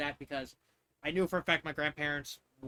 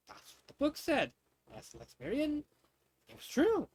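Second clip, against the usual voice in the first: defensive; 10 semitones higher than usual. Acted. Insisting the book is right.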